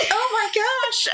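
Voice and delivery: mock toddler whimper. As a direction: play the startled little boy. Toddler startled.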